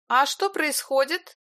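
slightly hoarse. A narrator's reading. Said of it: "слегка хриплым голосом".

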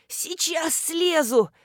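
high, slow, strained as if climbing off; straining grunt. A narrator's reading. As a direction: grunt it out with effort. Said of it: "прокряхтела Нина".

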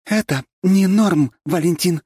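slow, loud, stern rebuke; indignant. A narrator's reading. Council head rebuking Valentin, slow loud indignation. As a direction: lay down the law word by word. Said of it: "возмутилась Лера".

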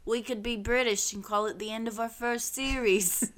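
bad put-on British accent; half-hearted British accent. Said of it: "That's not a good British accent".

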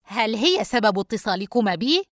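irritable. Acted. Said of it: "فريد بعصبية". (بعصبية مكتومة)

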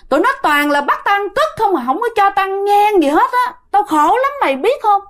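high, plaintive wail of a suffering ghost; a lightly voiced weeping ghost, pitched high; crying complaint. Ghost uncle tells his nephew of his suffering, high plaintive wail. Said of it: "vừa khóc mà vừa nói".

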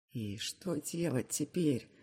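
sick, hoarse and slow; hoarse from a cold. A narrator's reading. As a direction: croak it out with a sore throat. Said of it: "спрашиваю охрипшим от болезни голосом".

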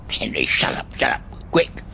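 hushed panicked shushing; urgent hiss. Acted. Grandad hiding from dad, hissing at dog. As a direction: hiss it so dad won't hear.

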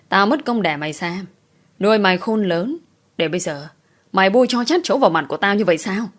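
father's heated scolding, rising in bursts; angry scolding. Acted. Father berating his daughter, angry scolding. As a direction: scold her like a furious father.

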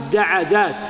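دعدات said daʿadāt, short a after the ʿayn; vowel copied over. Shown as a demonstration. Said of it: "الفاء مفتوحة". (دعدات بفتح الدال والعين)

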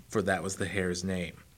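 ordinary delivery

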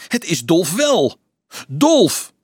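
high, loud cry of recognition; insistent exclamation. A narrator's reading. Someone recognising Dolf, insistent loud cry. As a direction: cry out, rising to a shout.

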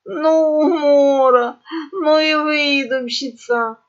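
high, breathless amusement; snorting mirth. A narrator's reading. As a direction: gasp it out, overcome with laughter. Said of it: "чуть ли не лицом уткнулась в стол и зафыркала". (давясь от смеха)

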